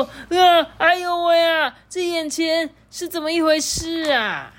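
high, loud gasp of alarm; hammed-up pirate shock; startled outcry. A narrator's reading. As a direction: cry out in storybook astonishment, pitch held high. Pirates startled by what they find.

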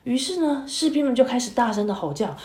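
put-on lively, expressive story voice for kids; storytelling to children. A narrator's reading. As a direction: read it like a bedtime tale for little ones.

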